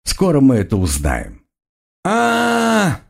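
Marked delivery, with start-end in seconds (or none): 2.0-3.0 high far-off scream; a short cry from ahead; distant scream. A narrator's reading. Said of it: "раздался крик".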